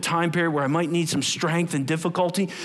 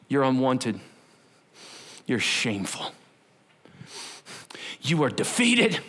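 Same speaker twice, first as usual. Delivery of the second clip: voice of lies; 5 semitones lower than usual. Acted. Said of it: "The voice of lies".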